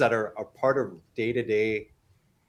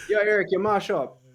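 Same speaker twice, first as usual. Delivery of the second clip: imitated Jamaican call, raised pitch; Jamaican accent; 7 semitones higher than usual. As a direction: call out teasingly in a put-on Jamaican Patois accent. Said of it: "So they'd be like".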